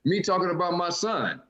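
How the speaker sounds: high, loud, laughing; cracking up answering her; laughing disbelief. Retold or imitated. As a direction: talk through laughter at the heckler. Comic reacting, laughing.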